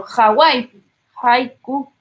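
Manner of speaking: Hawái and haiku begun with a Spanish J sound; H voiced as J in "Hawái, haiku"; aspirated H. Shown as a demonstration. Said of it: "La H cuando suena como J".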